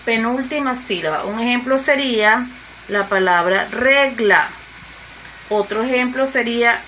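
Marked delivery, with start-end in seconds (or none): 3.7-4.5 "regla" slowly, weight on RE; stress on penultimate syllable. Shown as a demonstration. Teacher illustrating unwritten stress, weight on RE in "regla". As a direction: lean on the RE of "regla", let GLA drop. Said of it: "la mayor fuerza de voz en la penúltima sílaba".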